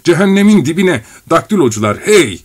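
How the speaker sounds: high loud roar. A narrator's reading. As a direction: bellow it out. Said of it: "diye kükredi".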